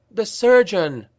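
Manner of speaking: high, loud shocked cry of recognition. A narrator's reading. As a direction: spot the enemy and cry it out. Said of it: "cried Franka".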